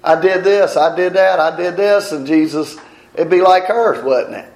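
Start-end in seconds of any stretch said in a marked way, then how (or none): 0.0-2.1 mock bragging, pitched higher; boasting saints. Preacher mocking boastful people in heaven, higher-pitched bragging. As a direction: imitate proud souls listing their deeds.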